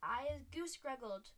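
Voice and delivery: slow, loud howl; a roped giant howling in outrage; giant's howl. A narrator's reading. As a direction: howl it out long and furious. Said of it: "howled the Man Hugger".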